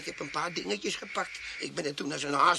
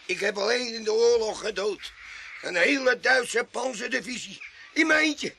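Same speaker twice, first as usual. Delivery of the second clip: much higher, loud, desperate pleading; panicked denial; 6 semitones higher, 3 dB louder than usual. Acted. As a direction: beg them to believe him. Tramp panics, accused of murder.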